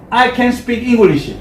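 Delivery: drawn out slowly for the class to echo; slow call-and-response. Shown as a demonstration. Teacher leads students in slow repetition. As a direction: lead it slowly, word by word. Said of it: "삼십 프로".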